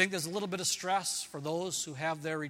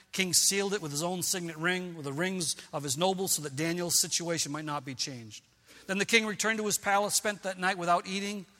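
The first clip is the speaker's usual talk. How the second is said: louder, dramatic Bible reading; scripture reading; 3 dB louder than usual. Acted. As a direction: proclaim the story to the congregation. Reads Daniel story aloud.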